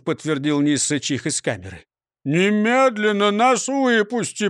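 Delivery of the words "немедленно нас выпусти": slow, raised, demanding voice. A narrator's reading. The hungry prisoner demands the prosecutor release them, loud. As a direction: insist on being let out right now. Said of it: "потребовал Крендель".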